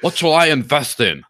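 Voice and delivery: a hint of Tone Vei asking what to buy; Tone Vei impression. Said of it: "my Tone Vei's and Bernie Sanders imitations".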